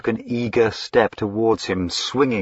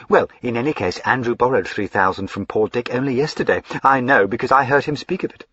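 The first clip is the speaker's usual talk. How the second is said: higher, excitable fine lady; eager young lady Lavinia; 5 semitones higher, 3 dB louder, faster than usual. Acted. Lavinia gushing to her brother, high and eager. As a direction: gush up high like a spoilt sister.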